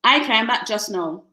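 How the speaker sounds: almost Caribbean lilt; near Caribbean accent. Shown as a demonstration.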